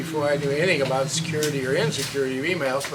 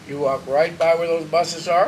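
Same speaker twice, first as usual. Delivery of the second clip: firm, louder command; forceful; 5 dB louder than usual. Retold or imitated. Telling the widow which bus to catch, forcefully. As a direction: push the order home. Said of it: "really very forcefully said".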